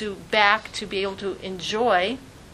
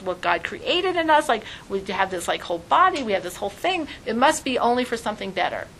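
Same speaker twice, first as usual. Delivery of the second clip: higher and louder, eagerly reasoning it out; lightly voiced earnest baby; optimist twin arguing; 3 semitones higher, 4 dB louder than usual. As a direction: convince your twin there's more out there.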